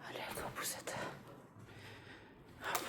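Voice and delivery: hushed whisper to the stroller. Real, not acted. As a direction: whisper it softly. Whispering near sleeping baby.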